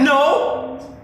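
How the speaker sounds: sudden high loud refusal; panicked high no; alarmed no. Real, not acted. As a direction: shut the idea down fast. Refusing the call to mother.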